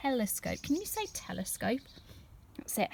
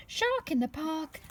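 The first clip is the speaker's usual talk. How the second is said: a playful higher call; mild mock shout; 6 semitones higher than usual. Tim shouts at the top of his voice, mildly. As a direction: sing out the warning lightly. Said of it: "he shouts".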